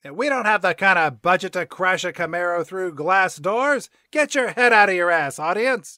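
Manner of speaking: lightly voiced irritated cat, a bit loud; a touch of scolding; Grumpy Cat. Grumpy Cat telling off the audience, mildly indignant. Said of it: "That's what Grumpy Cat pops up".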